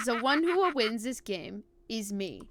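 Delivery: put-on villain's vow in a German accent. Villain vowing to win the game, German accent. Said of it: "yell all that shit out with a German accent".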